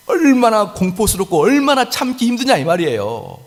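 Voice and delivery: high, urgent sermon climax; impassioned preaching. Real, not acted. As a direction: drive home the suspense of the dangling blade. Preaching at heightened intensity. (높은 톤으로 열정적으로 설교하듯)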